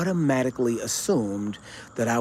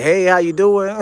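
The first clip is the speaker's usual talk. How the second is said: cheerful greeting; 8 semitones higher, 9 dB louder than usual. Retold or imitated. Retold friendly reply to stranger.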